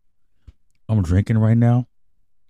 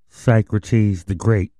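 shouted announcement; much slower than usual. Acted. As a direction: proclaim the name slowly. Host announces himself.

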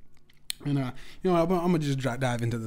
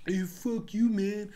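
higher, whiny comeback; a weak guy's sulky comeback, pitched higher; mock whiny retort; 7 semitones higher, slower than usual. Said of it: "he was just like".

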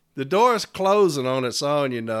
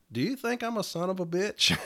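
softer, higher mock-hurt question; mock appalled; 4 semitones higher, 5 dB quieter than usual. Asking Dave after the insult, mock appalled. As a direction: play at being appalled. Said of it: "like I'm just appalled".

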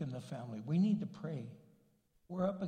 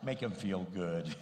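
wife's inner voice; 10 semitones lower than usual. Retold or imitated. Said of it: "just goes".

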